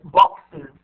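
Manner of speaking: "boxes" as box-iz, drawn out; extra IZ syllable. Shown as a demonstration. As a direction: loudly show "boxes" with an iz ending. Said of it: "إي زد".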